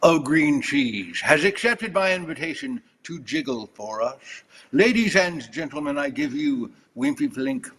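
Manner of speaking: slow, hammed-up British announcer; British accent. Reading a winning Mad Lib aloud with joke teeth, theatrical British accent. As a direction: declaim it in a mock British accent. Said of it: "with a British accent".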